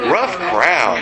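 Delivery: rueful chuckle through the words; laughing. Real, not acted. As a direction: laugh off the silent room. Joke fell flat, laughing.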